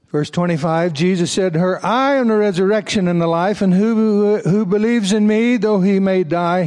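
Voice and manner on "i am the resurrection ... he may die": emphatic declaration. Acted. Reading Jesus's declaration aloud.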